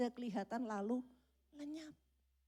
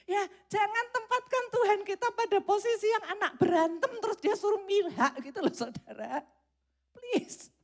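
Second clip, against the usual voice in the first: higher, louder pleading to the church; preacher urging the congregation, louder; emphatic appeal; 11 semitones higher, 7 dB louder than usual. Real, not acted. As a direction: press the point home.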